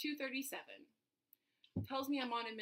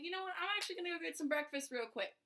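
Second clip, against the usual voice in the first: breezy defiance; 3 semitones higher, 3 dB louder than usual. Retold or imitated. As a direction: act bright and unbothered while leaving. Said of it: "so I'm like".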